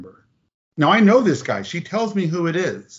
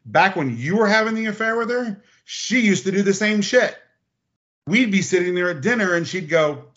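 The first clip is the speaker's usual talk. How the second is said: retelling Jim; 6 semitones higher than usual. Retold or imitated. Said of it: "And he goes".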